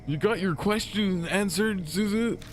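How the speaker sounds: very high, loud squeaky voice; high squeaky character voice. Acted. Same character voice returns.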